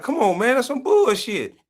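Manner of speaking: high mocking whine; a singer. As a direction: whine it out like a shocked celebrity. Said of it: "He was like".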